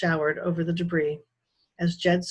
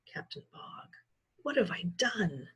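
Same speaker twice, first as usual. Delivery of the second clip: horrified; 8 dB quieter than usual. A narrator's reading. Jed's horrified realization.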